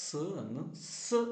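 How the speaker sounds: "സ്" as a short "suh", shown twice; letter sound of Z. Shown as a demonstration. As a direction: say each "സ്" as the sound of Z. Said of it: "pronounce ചെയ്യുന്നത്".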